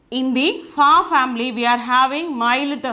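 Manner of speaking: ordinary delivery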